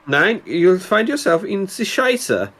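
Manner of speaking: hammed-up German threat, dragging it out; German accent. Joking threat to the driver in mock German. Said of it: "Germany's one of my favourite ones to do".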